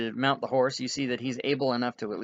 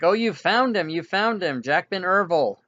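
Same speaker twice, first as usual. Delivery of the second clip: high, louder cry of joyful relief; thrilled recognition, pitched up; delighted healer; 5 semitones higher, 4 dB louder than usual. Acted. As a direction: exclaim as if a lost friend just walked in. Healer's eyes light up seeing him.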